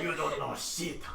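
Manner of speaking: put-on lightly French-accented cat. Game master voices the cat to the players, French accent. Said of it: "You gave me a French cat".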